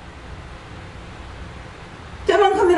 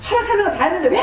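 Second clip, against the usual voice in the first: 흉내 낸 고함; 6 semitones higher, faster than usual. Acted. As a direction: act out yelling "why" in protest, stretching it out. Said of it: "소리를 지르죠". (길게 늘여 소리 지르는 시늉)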